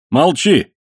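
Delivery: barked command, loud and high; sharp order. Acted. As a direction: order him to shut up. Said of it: "приказал матрос".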